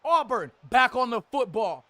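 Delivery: lively TV game commentary; play-by-play. Acted. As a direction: sell the big throw like a broadcaster.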